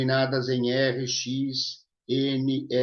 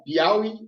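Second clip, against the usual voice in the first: PIAUÍ said wrongly as piÁUi, stress off the final I; "Piauí" with the final í left unstressed; misplaced stress; 8 semitones higher, 4 dB louder than usual. Shown as a demonstration. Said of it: "Você não fala Piauí".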